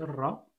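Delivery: ra with a clearly rolled R; rolled R demo. Shown as a demonstration. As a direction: roll the R in ra, teacher-style. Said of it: "c'est le R roulé".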